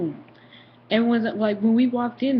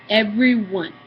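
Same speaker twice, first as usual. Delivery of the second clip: "everyone" set apart and louder; insistent, louder "everyone"; stress on everyone; 6 dB louder, slower than usual. Real, not acted. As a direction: hit "everyone" hard for emphasis. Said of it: "and I say everyone".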